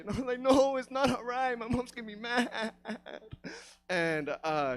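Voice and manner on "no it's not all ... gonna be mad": mock tearful protest; upset kid. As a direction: wail it like an upset schoolkid. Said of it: "I was all fucking upset".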